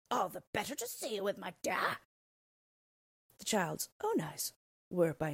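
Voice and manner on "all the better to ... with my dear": a hint of a sly wolf playing granny; the wolf purring out his answer; lightly voiced wolf-granny. The disguised wolf answers the girl, lightly voiced and sly.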